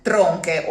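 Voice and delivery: crisp Italian tronche. Shown as a demonstration. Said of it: "they are called tronche".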